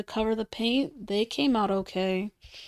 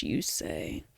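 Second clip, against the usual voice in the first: mock questioning voice; 7 dB quieter than usual. Imagined viewer question, voiced reply.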